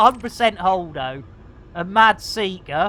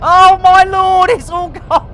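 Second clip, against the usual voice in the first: loud high laugh into a cry of disbelief; helpless laughing fit; hysterical laughter; 9 semitones higher, 8 dB louder than usual. Real, not acted. Gamer stuck after a crash, helpless laughing.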